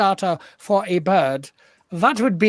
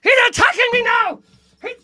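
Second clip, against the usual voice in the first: high yelping shout, much higher; mock panic; 3 dB louder than usual. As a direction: shriek as the bird attacks. Bird attack, shouting.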